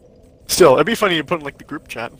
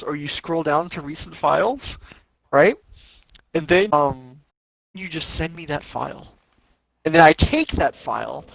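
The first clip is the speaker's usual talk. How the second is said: condescending tutorial. Pretend. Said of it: "Let me know if you need me to explain that to you".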